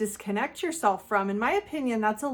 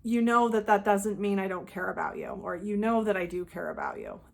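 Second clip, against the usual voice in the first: matter of fact. Shown as a demonstration. Answering a manipulator's guilt trip with calm reassurance. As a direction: state it flatly, no emotion. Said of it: "you say something matter of fact".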